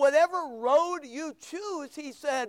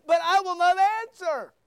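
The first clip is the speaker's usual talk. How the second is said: booming verse; 5 semitones higher, 6 dB louder than usual. Shown as a demonstration. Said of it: "Notice verse twenty-eight".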